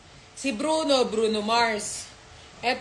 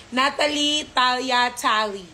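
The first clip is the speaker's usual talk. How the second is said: name said for the puppy; slower than usual. Shown as a demonstration. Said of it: "You say your name".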